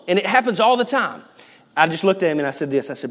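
normal talking voice

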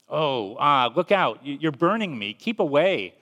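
a hammed-up frightened ghost shrinking back; panicked cry. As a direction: recoil from the heat in mock panic. Ghost burned by the angel.

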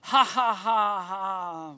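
forced, mocking ha ha; hollow sarcastic chuckle; sarcastic laugh. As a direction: fake a laugh at a lame joke. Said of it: "a sarcastic laugh".

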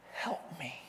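very soft, small plea; quiet, spent begging; helpless plea. Retold or imitated. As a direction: drop to a hushed, humble request. Woman's final plea after loud acclaim.

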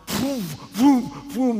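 imitated whoosh of passing traffic; sudden booming whooshes, one after another; whooshing cars. Preacher recalling cars flying by at the roadside, imitated whooshes.

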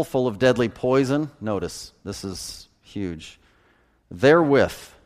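measured King James Bible reading; scripture reading. Acted. Preacher reading Matthew aloud to the congregation, solemn. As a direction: read the verses with solemn weight.

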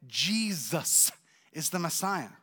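every word spelled out very slowly; slow and deliberate. Retold or imitated. Husband repeating his news very slowly to his wife so she hears it. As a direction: say it slowly so she can't miss it. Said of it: "you didn't hear what I said".

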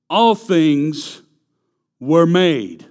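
loud, emphatic declaration; preacher booming the verse for the congregation. Shown as a demonstration. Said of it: "preacher repeats the verse line".

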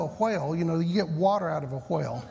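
put-on southern accent. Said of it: "couldn't make that pronunciation difference".

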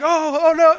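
high, loud comic alarm; mock panic. Pastor acts a slowly sinking kid, hammed-up panic. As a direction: yelp it like a cartoon sinking.

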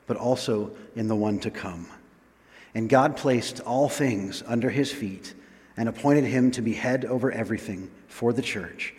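measured, solemn Bible reading; scripture reading. Acted. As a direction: read the passage aloud in deliberate phrases with pauses. Reads scripture aloud to congregation.

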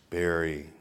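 low, slow, solemn God voice. Acted. God commands a young man to tithe, mock-divine. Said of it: "God spoke to me in a very clear voice".

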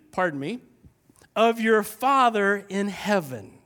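slow, careful scripture reading; deliberate pulpit reading; read slowly. Shown as a demonstration. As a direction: give each phrase space. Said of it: "I'm gonna read this really slow".

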